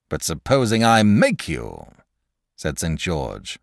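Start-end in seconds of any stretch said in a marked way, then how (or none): 0.1-1.9 a touch of irritation; nettled. A narrator's reading. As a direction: George challenging the dragon, mildly nettled. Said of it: "rather nettled".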